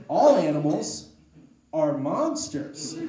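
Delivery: "All animals are monsters" drawn out slowly; "All" hit loud, "monsters" stretched slowly; emphatic repeat. Acted. Drives home the horrified realization.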